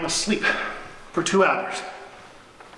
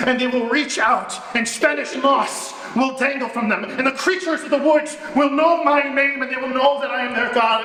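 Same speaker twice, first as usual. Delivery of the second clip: manic grandeur; 6 semitones higher than usual. Retold or imitated. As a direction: declaim like a would-be forest god. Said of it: "And I say".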